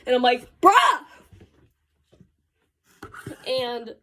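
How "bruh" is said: high, loud exasperated yelp; retold cry of exasperation; exasperated outburst. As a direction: burst out at a stubborn friend. Exasperated at friend who won't move.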